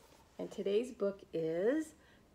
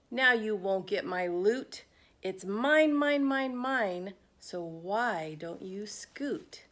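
gloating. Acted. Pig gloats over his pile.

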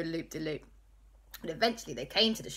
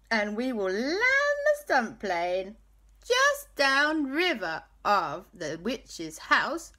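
eager scheming; 5 semitones higher, 4 dB louder, slower than usual. Acted. Auntie Lisa hatching a plan.

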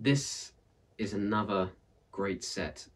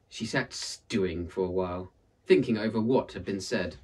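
lively storyteller reading a folktale; story narration; 3 dB louder than usual. A narrator's reading. Narrator reading a folktale aloud, lively storytelling. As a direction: tell it like a read-aloud tale for listeners.

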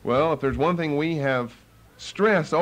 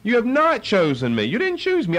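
fired-up challenge; 6 semitones higher than usual. Real, not acted. Preacher challenging the congregation.

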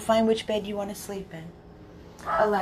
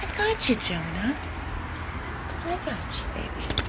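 tender coo; 3 semitones higher, 6 dB quieter than usual. Real, not acted. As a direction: reassure him gently. Soothing dog, high voice.

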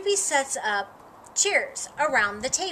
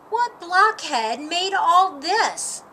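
slow, loud, scornful demand; disgusted scorn; 4 semitones higher, 5 dB louder, slower than usual. Acted. Patty mocking the cook of the dinner, slow and scornful. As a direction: spit out the question in disgust.

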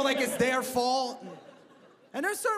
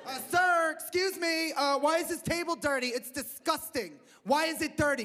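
higher, mildly put-on complaining voice; entitled rich customer; 5 semitones higher than usual. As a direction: play a fussy, disgusted diner. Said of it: "rich white women".

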